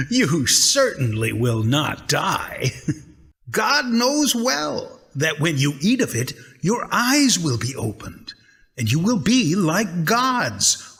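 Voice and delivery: gleeful scheming serpent; laughing sly snake. Acted. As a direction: tempt her, laughing through the lie. Snake tempts the woman.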